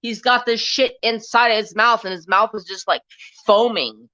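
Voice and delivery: exasperated retort. Retold or imitated. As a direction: throw it back at him, appalled. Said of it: "I go".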